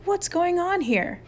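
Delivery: high, slow, stretched-out wail; long high-pitched howl; howling demand. A narrator's reading. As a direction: demand answers in outrage. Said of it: "He charged up, howling".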